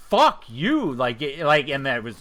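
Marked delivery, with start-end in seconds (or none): 0.1-0.9 angry retort. Retold or imitated. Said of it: "I lost my shit".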